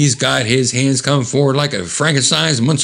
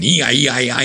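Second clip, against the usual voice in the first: imitated blast noise; 2 semitones higher, faster than usual. Narrator shows the sound behind him, light imitated wail. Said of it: "the sound is loud".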